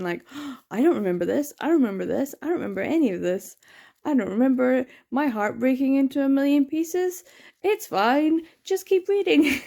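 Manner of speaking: gasp, then rising disbelieving "I don't remember this"; gasping surprise. Retold or imitated. Reader rediscovering the volume, gasping and then forcing calm. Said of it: "reading it fresh all over again".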